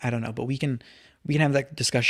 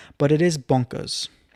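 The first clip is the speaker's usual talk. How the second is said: put-on British English accent, slow and deliberate; 2 semitones higher, 3 dB louder than usual. Reading out a quote about the First Amendment: British accent. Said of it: "Let me know how my British accent was".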